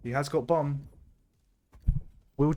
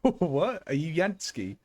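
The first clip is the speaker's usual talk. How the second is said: surprised; 4 semitones higher, slower than usual. Real, not acted. Caster startled by chat question.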